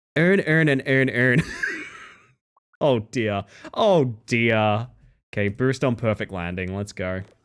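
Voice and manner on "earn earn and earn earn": accent from Baltimore. Asked what Baltimore sounds like, demonstrate it by repeating one word in a Baltimore accent. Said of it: "what does Baltimore sound like?".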